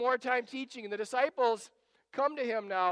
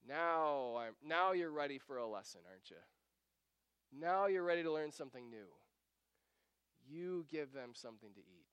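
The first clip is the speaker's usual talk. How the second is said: low, soft, knowing reply; quiet, lowered voice of a patient master; calm teacher; 6 semitones lower, 6 dB quieter than usual. Acted. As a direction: settle down and speak gently, like starting a lesson. Jesus calmly answers the tired disciples.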